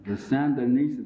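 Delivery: a light Nixon-style delivery of "The Sandinistas"; Richard Nixon impression. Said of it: "my Richard Nixon used to be pretty good".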